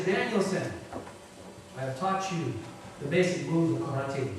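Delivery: soft, calm, unhurried wise teacher; a master quietly reassuring his student. Retold or imitated. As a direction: answer the frustrated pupil gently and patiently.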